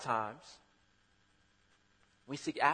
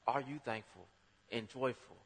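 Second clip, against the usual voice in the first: baffled onlooker; 6 semitones higher, 7 dB louder than usual. Retold or imitated. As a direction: act out a stunned nonbeliever. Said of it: "they looking at you like".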